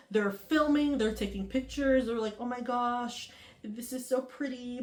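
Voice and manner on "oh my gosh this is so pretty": softer, hushed and dreamy imitation; mock awed hush. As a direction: breathe it like a touristy wow. Girls admiring the cave.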